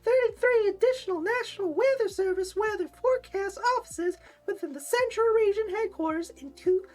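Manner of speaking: very high pinched flamboyant voice; nasal voice. Pretend. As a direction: squeeze the words high through the nose. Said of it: "Maybe that's my nasal voice. Um, or flamboyant voice".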